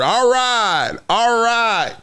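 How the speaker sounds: a lightly voiced, even dad; a hint of a reserved father nodding along; dad's calm approval. Dad on the sideline, lightly voiced and calm. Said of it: "all I heard".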